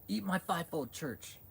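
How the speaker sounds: high, slow put-on mockery; mock preacher voice. Streamer imitating a preacher forcing her church, mockingly.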